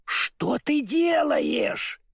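very high, drawn-out alarmed cry; frightened cry. A narrator's reading. Scarecrow seeing the woodman's tears, frightened cry. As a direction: cry out in panic, high and stretched. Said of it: "в испуге закричал Страшила".

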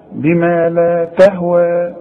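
تهوى ending on a two-count long vowel; slow recitation, stop on تهوى with only a natural lengthening; natural short madd. Shown as a demonstration. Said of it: "مد طبيعي". (مدّ طبيعي حركتين في آخر «تهوى»)

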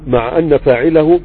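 slow, careful reading of مع ان فاعله; مع ان read slowly. Shown as a demonstration. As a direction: spell out مع ان فاعله word by word. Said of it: "مع ان ولا مع انه؟".

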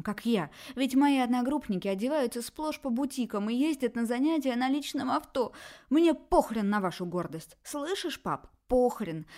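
angry daughter. Acted. Daughter rants at her family about money, angry and loud. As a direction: hurl every demand at them.

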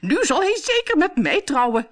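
high, loud, thrilled exclamation; excited cry. A narrator's reading. Bertha on reading the proclamation, crying out excitedly. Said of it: "riep Bertha".

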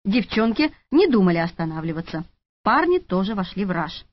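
plain reading voice

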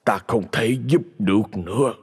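put-on slow, heavy lament of a mild old master; lightly voiced sorcerer sighing over fate; resigned old sorcerer. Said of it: "lắc đầu thở dài".

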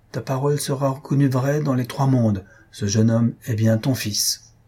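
measured, solemn instruction; understated ritual gravity. A narrator's reading. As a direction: lay down the ordeal solemnly. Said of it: "lui dit d'une voix solennelle".

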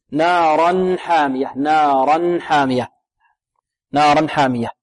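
measured نارا حامية with a crisp n before the h; clear tanween. Shown as a demonstration. Teacher drills recitation, clear tanween. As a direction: sound the n ending نارا fully before حامية. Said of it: "لابد من إظهار التنوين".

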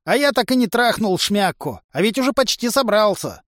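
high-pitched plaintive lament; sad. A narrator's reading. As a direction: complain sorrowfully in a high voice. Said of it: "печально спросил теперь уже Тришка".

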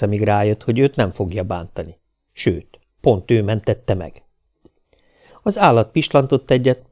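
ordinary delivery

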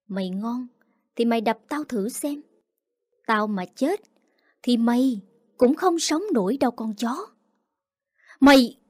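steely defiance ending in a shout; defiant challenge. Acted. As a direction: dare her, then bark the last word. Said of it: "thách thức".

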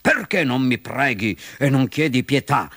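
peeved fox demand; irritated villain voice; vexed. Acted. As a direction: press the captive, frustrated. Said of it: "si indispettì la volpe".

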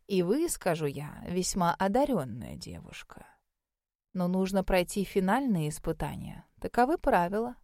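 put-on measured, slightly hushed elderly examiner; old mage, gravely approving. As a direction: deliver the verdict with quiet deliberation. Voices the old mage giving verdict. (старый маг, негромко и веско)

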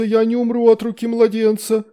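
high howling wail; a demon's high frantic howl. A narrator's reading. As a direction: howl it out in panic. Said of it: "взвыл Амахьед".

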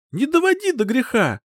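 high, loud warning shout; enraged warning. A narrator's reading. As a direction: warn him before she snaps.

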